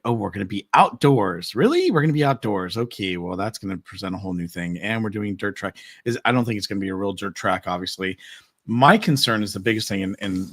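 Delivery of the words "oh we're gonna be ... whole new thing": mock planners. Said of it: "but here it's like".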